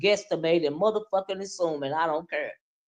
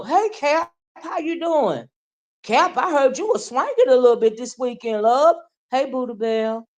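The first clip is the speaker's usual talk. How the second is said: higher, sing-song sugary hello; a hammed-up honeyed greeting; mock sweet greeting; 5 semitones higher than usual. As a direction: imitate a fake-friendly caller. Mimicking someone's sweet greetings.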